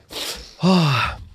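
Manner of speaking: big sigh after choking up; emotional sigh. Real, not acted. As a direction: breathe out to regain composure. Recovering after nearly crying.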